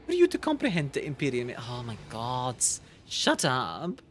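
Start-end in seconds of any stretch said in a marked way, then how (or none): 0.0-1.5 lightly voiced game characters, measured and grave; voicing game characters. Streamer voicing the dialogue to chat, in a measured low tone. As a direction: read the alien's lines with cool disdain.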